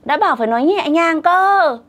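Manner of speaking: high-pitched mock wail of protest; crying child's protest. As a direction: mimic a child fussing tearfully, pitched well up. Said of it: "Nó khóc ầm lên".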